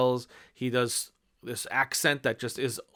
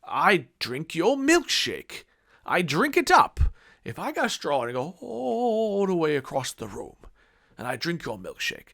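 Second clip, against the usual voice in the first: classic villain line; 3 semitones higher than usual. Retold or imitated. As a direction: savor each word, taunting. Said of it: "they bring the classic line".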